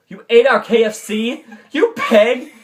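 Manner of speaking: high, loud acted outrage; indignant outburst. Boy scolding creature for eating his lunch, high indignant outburst. Acted quarrel over eaten food.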